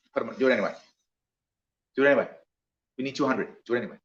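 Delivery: low, soft conspiratorial order to bend the rules; hushed go-ahead. Retold or imitated. Larry tells his staff to serve them anyway, hushed. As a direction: quietly wave them through.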